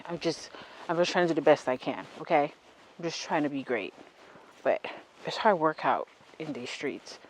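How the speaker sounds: out of breath while walking; winded, talking between breaths; running out of air. Real, not acted. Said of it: "I'm running out of breath".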